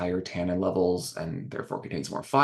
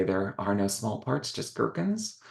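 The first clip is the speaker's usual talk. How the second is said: quip it like a squeaky pickle; Mister Pickle voice; 4 dB quieter than usual. Retold or imitated. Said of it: "as Mister Pickle would say".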